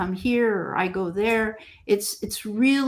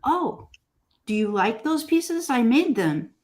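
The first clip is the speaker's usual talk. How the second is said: gentle; 3 semitones higher than usual. Retold or imitated. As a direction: re-enact a gentle, unassuming question. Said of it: "I will say gently".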